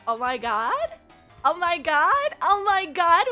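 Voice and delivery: rising excited squeal. Real, not acted. Excited reaction to model reveal.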